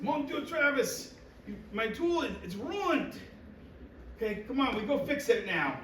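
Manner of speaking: put-on high-pitched, exasperated grandfather with a heavy Quebec French accent; thick Quebec accent. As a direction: imitate a Québécois grandfather scolding in thick-accented English. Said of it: "very thick accent".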